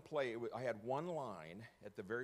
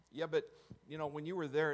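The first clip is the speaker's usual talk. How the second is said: insisting, raised voice and higher; pressing louder; 6 semitones higher, 8 dB louder than usual. Retold or imitated. Insisting to the doctor he saw him, raised voice. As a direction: push the point louder and higher.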